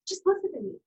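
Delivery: high, upset retelling of a tearful plea; re-enacted tearful appeal; retold crying. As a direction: plead it high, as if through tears. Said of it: "can't understand me 'cause I'm crying".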